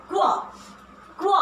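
क्व said as half k gliding into v; teacher models क्व for students; kw sound. Shown as a demonstration. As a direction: demo the blended sound क्व. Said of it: "sound है वो है आधा क और व".

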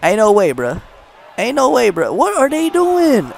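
rising, loud can't-believe-it; disbelief. Real, not acted. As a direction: shout it out, amazed. Disbelief at the stalling.

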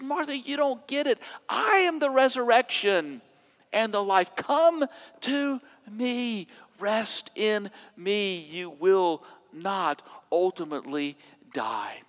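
slowing down, softening into come to me; gentle assurance. Acted. Jesus answers Martha gently.

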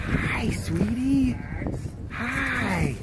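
high, drawn-out sweet hello; cooing at a dog. Real, not acted. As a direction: greet the pet way up high.

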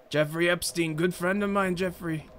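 Trump impression. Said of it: "That doesn't sound like Trump".

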